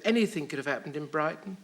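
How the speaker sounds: caretaker's panic building to a high pitch; hammed-up dread, rising to the punchline; mock panic. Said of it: "this dreadful panic on the poor woman's face".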